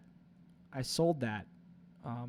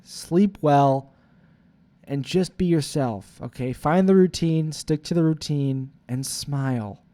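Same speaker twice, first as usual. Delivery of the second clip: future self scolding; 5 dB louder than usual. Retold or imitated. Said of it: "future self would probably be fucking screaming at me".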